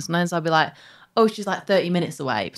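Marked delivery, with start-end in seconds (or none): 1.2-2.5 "thirty minutes away" run together quickly; fast casual speech. Shown as a demonstration. Showing how speed changes her accent, quick casual "thirty". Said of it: "depends how fast I'm speaking".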